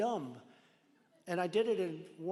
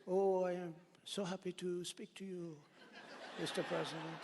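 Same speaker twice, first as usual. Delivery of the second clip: a light, lilting hint of a French accent; mock French accent; 5 dB quieter than usual. Trump imitating Macron's French accent, lightly. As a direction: softly put on a French accent, barely done. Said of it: "I could never imitate that beautiful French accent".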